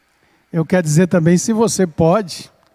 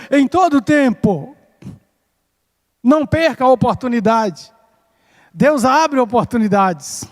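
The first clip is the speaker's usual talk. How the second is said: exhorting preaching; 6 semitones higher than usual. Real, not acted. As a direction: urge the congregation in raised, rolling phrases. Prega em tom exortativo. (pregação exortativa, em tom elevado)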